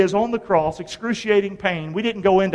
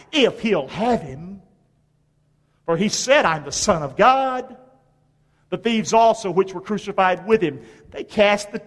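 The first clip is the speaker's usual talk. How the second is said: Scripture reading; 2 semitones higher than usual. Acted. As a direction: read the verses out to the congregation, weighting key words. Reads Scripture aloud to congregation.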